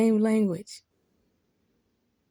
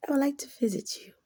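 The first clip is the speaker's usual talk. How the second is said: mock whisper; 5 semitones higher, 6 dB quieter, faster than usual. Mock polite visiting offer.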